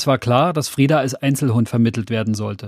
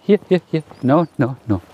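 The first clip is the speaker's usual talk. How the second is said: Hund rufen. Real, not acted. Hundespaziergang, Hunde zurückrufen.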